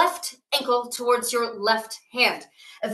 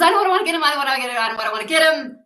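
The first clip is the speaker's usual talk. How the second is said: bursting to go first, then settling; excited god; 3 semitones higher, 4 dB louder, much faster than usual. Acted. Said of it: "He's so excited".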